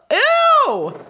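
grossed-out laughing ew; disgusted. Real, not acted. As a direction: recoil at the smell with a laugh. Disgusted by candy smell.

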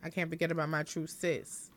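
lightly voiced sheepish apology; mock apology. Imagined apology from a singer.

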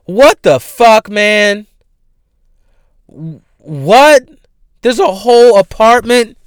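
loud, high-pitched disbelief; incredulous outburst. Real, not acted. Host reacts to an apartment rented for Instagram pictures, incredulous. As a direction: burst out in baffled outrage.

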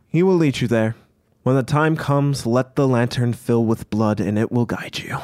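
lightly voiced, measured instructor; the Riker, solemn guide-giver. Riker instructing the party about the lantern, lightly acted solemnity. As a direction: deliver instructions with slight formal weight.

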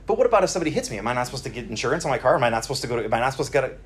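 quick, piled-up excuses in a mock protest; rushed protesting. Voicing the listeners' quick objections.

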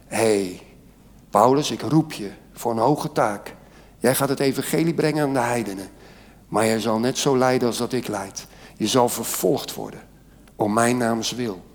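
voice of God. Retold or imitated. Preacher voicing God telling Paul he will suffer, low and soft.

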